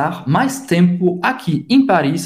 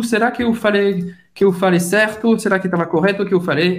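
mock doubt; 3 semitones higher, faster than usual. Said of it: "ela tava na dúvida".

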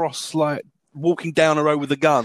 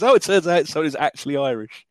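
mock Irish accent. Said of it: "most racist Irish character".

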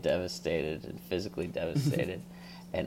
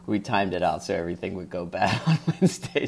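laughing; 3 dB louder, faster than usual. Retold or imitated. Laughing through a retold quote.

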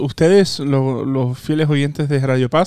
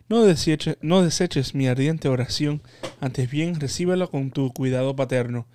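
prayer. Real, not acted. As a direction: recite the prayer devoutly. Leads a prayer.

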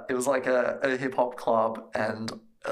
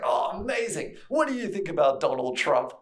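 much higher, gushing start; mock attendant enthusiasm; 5 semitones higher than usual. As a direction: act delighted, then pry. Attendant small talk.

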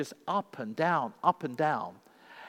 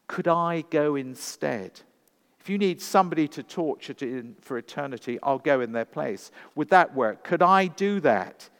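desperate plea; 4 semitones higher, 6 dB louder than usual. A narrator's reading. Mackenzie begging to go instead of his children, desperate plea. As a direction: beg to take their place.

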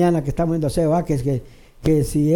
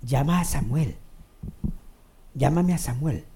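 Saul's command; 6 semitones lower, 6 dB quieter than usual. Acted. King Saul voiced demanding Samuel.

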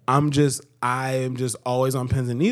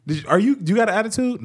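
higher, quick accusing question; mock questioning; 5 semitones higher, faster than usual. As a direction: play the suspicious partner pressing. Acts out partner questioning him.

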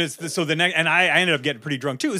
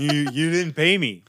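put-on drunk slurring; 3 dB louder, slower than usual. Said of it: "He was slurring at this point".

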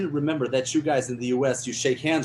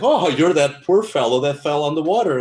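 a hint of a smooth, louder producer voice; smooth talker; 3 semitones higher, 7 dB louder than usual. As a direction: play the silky charmer. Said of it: "chatting voice like Richard Dreyfuss".

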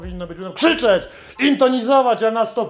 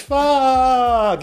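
higher yelled English swear; shouted curse; 4 semitones higher than usual. Shown as a demonstration. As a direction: yell it like an American. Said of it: "Amerykanie nie mogą krzyczeć".

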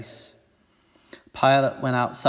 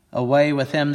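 mild yell. Acted. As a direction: call out the rejection. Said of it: "they yelled".

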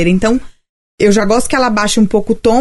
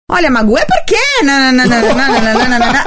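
1 shifting liar's voice; faster than usual. Shown as a demonstration. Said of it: "se ela começa a mudar muito o tom de voz".

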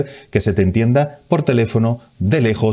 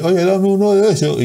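higher, hurried mock request; mock customer behind glass; 11 semitones higher than usual. Customer asking through a shop window, mock request. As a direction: toss off a lazy order nobody can read. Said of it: "podemos hacer así".

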